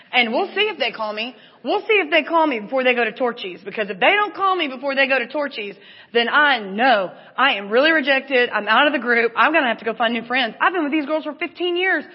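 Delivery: acted-out anxious rant; freaking out. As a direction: work yourself up from uneasy to frantic. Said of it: "Do you hear me freaking out".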